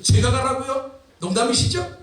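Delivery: mildly acted disbelief; Gideon. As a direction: balk at the order, half incredulous. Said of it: "그렇게 말하는 기도원의 모습을 봅니다". (믿기지 않는 듯 되묻는 연기)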